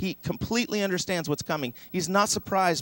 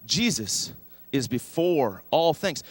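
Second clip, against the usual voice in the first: slow recited verse; slower than usual. Shown as a demonstration. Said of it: "say that one more time".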